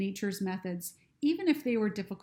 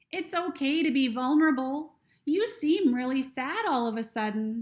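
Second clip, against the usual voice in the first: lightly voiced ladybug, higher and kind; a small higher creature voice, gentle; 5 semitones higher, 4 dB louder than usual. Ladybug speaks in story.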